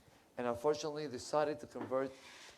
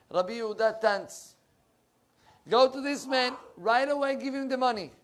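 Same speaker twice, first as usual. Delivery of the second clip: urgent command; 8 semitones higher, 7 dB louder than usual. Acted. Arizal urgently orders his students.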